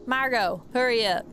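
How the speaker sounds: loud call across the room. Acted. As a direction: shout for her to hurry. Boss calling across diner.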